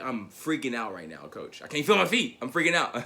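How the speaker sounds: freaking out. Retold or imitated. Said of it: "It's like".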